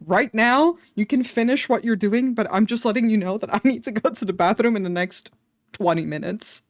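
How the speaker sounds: fast, anxious over-apologising; quickly nervous nurse-pleasing apology; rushed apology. Retold or imitated. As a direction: gush apologies, hurrying through them. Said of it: "I was like".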